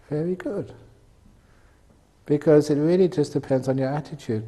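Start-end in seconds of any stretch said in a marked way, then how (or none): 0.1-0.7 soft very good. Shown as a demonstration. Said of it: "Whatever happens to you in life".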